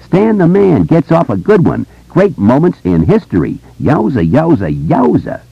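high-pitched showman's crowing; brash joker boy. A narrator's reading. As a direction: announce it like an excited hype man. Narrator plays the joker boy.

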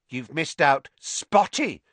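malicious prompting; spiteful hiss. Acted. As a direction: hiss a taunt into an ear. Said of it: "Peeves hissed in her ear".

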